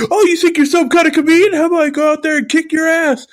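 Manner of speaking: high, fast, hammed-up tough guy threat; mocking tough guy. Driver threatens the ice seller, hammed-up high sneer. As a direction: sneer it like a wannabe brawler. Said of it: "And he's like".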